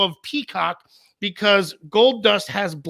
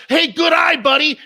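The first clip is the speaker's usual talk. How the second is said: yelling at the TV; 6 semitones higher than usual. Retold or imitated. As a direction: cheer at the batter through the screen. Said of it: "and I'm screaming".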